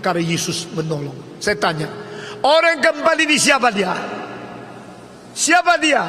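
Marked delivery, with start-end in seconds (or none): 2.4-6.0 high, loud challenge to the congregation; ringing, raised-pitch question; forceful preacher's question. Real, not acted. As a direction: call out for an answer.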